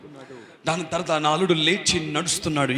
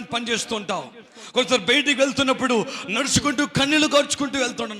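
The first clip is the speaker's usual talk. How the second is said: raised-pitch, rolling exhortation; fervent preaching; 8 semitones higher than usual. Real, not acted. Preacher describing believers who weep as they travel, fervent. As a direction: press on through the list fervently.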